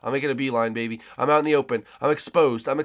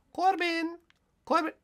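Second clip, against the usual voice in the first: calling out. Real, not acted. Calling out to teammate.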